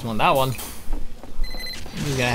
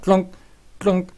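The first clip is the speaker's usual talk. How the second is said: wrench clunk noise; 5 semitones higher than usual. Retold or imitated. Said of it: "the engineer's like".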